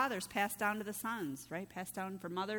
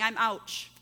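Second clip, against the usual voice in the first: mock announcing; 6 dB louder than usual. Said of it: "has to go his whole life announcing".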